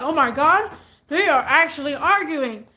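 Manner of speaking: surprised. Retold or imitated. Watching the couple fight.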